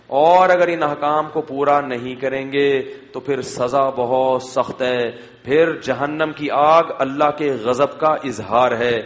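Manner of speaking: slow, grave sermon cadence; solemn warning. Acted. Preacher warning of hellfire, slow and solemn. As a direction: let each word of punishment weigh.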